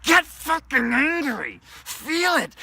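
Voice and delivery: high, loud, slow roar; full angry yell; angry shout. Acted. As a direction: shout it out to rouse rage. Yells to get angry.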